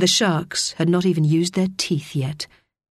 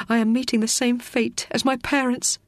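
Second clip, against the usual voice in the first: Teo's thought; 5 semitones higher than usual. Acted. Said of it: "thought Teo".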